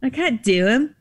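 a hint of Kyle's whine; imitating Kyle. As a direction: repeat it Kyle's way. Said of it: "The way he does".

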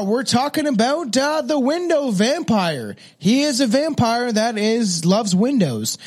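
dramatic intro. Pretend. Mock-dramatic introduction of topic.

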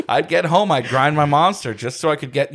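words through laughter; real amused laughter in the voice; laughing while talking. Real, not acted. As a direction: keep laughing as you speak.

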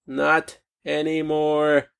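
slow emphatic repeat. Real, not acted. To the viewers, driving the point home slowly. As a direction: let each word sink in, slowly.

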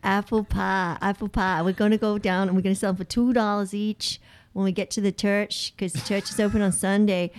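a lightly put-on Southern American accent; bad Southern accent. Australian cohost attempting a country Southern accent, lightly. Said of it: "with a southern accent".

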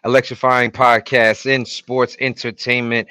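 big ring announcer opening; announcer intro. Acted.

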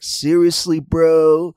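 lightly voiced stoner bro; stoner impression. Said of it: "sounds like a stoner".

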